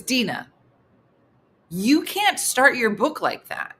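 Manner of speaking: mildly exasperated retold objection. Boyfriend objecting to her joke opening, exasperated. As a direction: imitate his mild disbelief. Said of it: "his exasperation".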